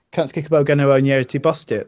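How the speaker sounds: broad local British dialect, run together; thick regional dialect vowels. Shown as a demonstration. Showing friends what a dialect is, broad regional dialect. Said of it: "That is a dialect".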